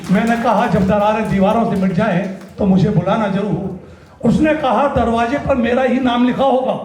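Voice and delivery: measured spoken-word verse; stage poet's cadence; poetry recitation. Acted. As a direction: deliver each couplet to the audience. Recites his poem Makaan.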